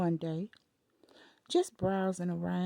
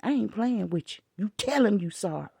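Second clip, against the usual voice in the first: stern command. Retold or imitated. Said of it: "I said".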